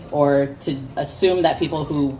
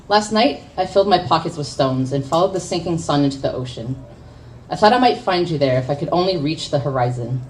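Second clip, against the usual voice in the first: poem reading. Acted. Poet reads her own poem to the open mic, measured spoken word. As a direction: let each image land with a pause.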